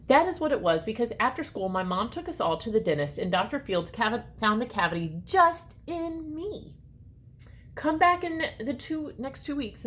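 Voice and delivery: put-on lively read-aloud for children; story narration. A narrator's reading. Reading a story to children, lively and expressive. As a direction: read it like a picture book to kids. Reads picture book aloud.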